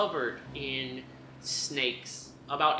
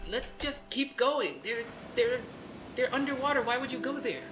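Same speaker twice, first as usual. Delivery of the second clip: bird voice; 6 semitones higher, 4 dB quieter than usual. Acted.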